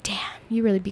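softly whispered quoted reaction; half-whispered retort; hushed retold amazement. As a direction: murmur it under your breath. Retold reaction to partner's correction.

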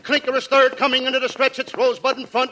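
mock play-by-play of the horses; lightly voiced race announcer; race call. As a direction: rattle off the race like a track announcer.

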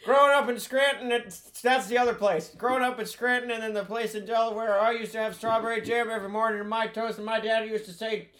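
put-on rambling old politician voice; folksy meandering old statesman; Joe impression. Old politician rambling about Scranton.

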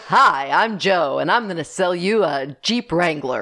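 slow, pushy car salesman pitch; lightly hammed-up salesman voice; car salesman impression. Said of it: "The car salesman, Joe".

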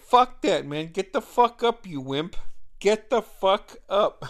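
imitating a pushy brother, punched out loud; rousing yell. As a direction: yell at your brother to get up. Brother ordering him to get up.

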